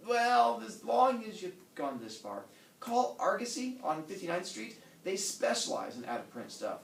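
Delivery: lightly voiced wife giving advice.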